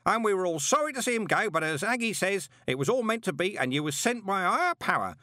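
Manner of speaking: high, loud, cheerful bellow. A narrator's reading. Parker cheerfully bellowing about his late spouses. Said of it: "bellowed cheerfully".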